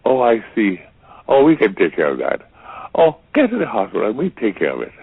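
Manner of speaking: breezy good doctor, no worries; a hint of an upbeat doctor; reassuring doctor. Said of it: "if we go to a good doctor".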